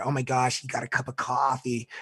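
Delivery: lightly voiced tattletale child; a hint of a tattling first-grader; little tattletale. Little kid telling the teacher on him, mildly imitated tattletale. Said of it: "Like a little tattletale in first grade".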